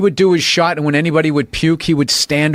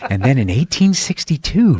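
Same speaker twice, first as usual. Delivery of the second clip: 1 dull audiobook reader. Retold or imitated. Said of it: "trying to make it sound interesting".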